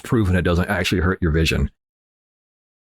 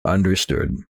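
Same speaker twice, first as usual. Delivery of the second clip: ordinary talk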